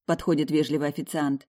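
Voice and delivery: ordinary delivery, nothing marked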